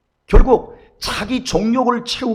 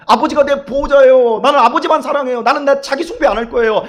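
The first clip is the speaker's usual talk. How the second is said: high, loud, fervent plea; fervent prayer; 7 semitones higher, 7 dB louder than usual. Acted. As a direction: pour it out like a child clinging to God. Model prayer to God. (높고 크게, 간절한 기도)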